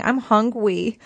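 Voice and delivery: lightly imitated baby talk; mock baby-talk whine for food. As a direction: put on a hint of a babyish voice. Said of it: "who does the baby voice".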